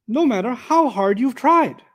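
earnest pleading emphasis; emphatic rephrasing. Shown as a demonstration. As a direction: stretch out "no matter how" with weight. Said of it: "And then you can say".

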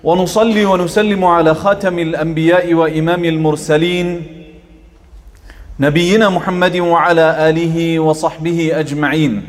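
even, measured Arabic invocation with little rise or fall; formal opening invocation. Acted. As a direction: open the sermon with a restrained formal prayer.

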